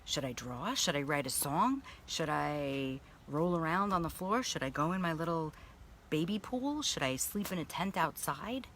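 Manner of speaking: a hint of a curious little girl; inner child wondering. Her inner little girl Shane asking what to do, lightly childlike. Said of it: "I'm like".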